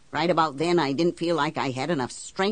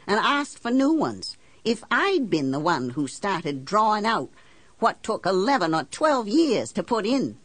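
higher-pitched, indignant questioning; indignant challenge; 5 semitones higher than usual. Acted. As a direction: confront the banker with pointed what-ifs. Confronts banker in acted quarrel.

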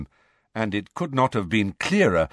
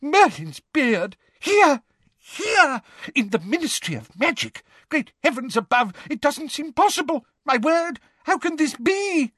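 gibbering madness. Acted. Fudge in frantic disbelief.

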